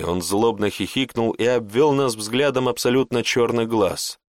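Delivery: ordinary delivery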